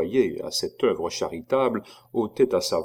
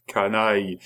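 tender insult. A narrator's reading. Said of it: "avec un accent de tendresse mal déguisé".

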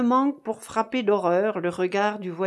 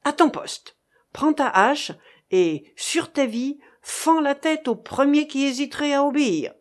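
stern orders; 6 semitones higher, 4 dB louder than usual. A narrator's reading. Captain barks orders in storm.

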